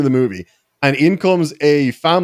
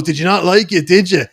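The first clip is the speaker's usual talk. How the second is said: retold confrontational taunt; 3 semitones higher than usual. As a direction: imitate the dad picking a fight. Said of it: "shoulders into me and goes".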